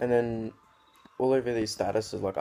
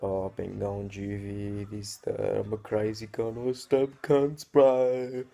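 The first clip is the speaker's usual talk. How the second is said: mock tough guy; 3 dB louder, slower than usual. Mocking his tough-guy statuses.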